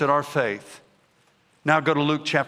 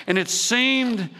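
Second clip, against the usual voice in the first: higher, slow reading with build; slow dramatic reading; 4 semitones higher, slower than usual. Shown as a demonstration. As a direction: read it slowly for effect. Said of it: "you gotta read it the way".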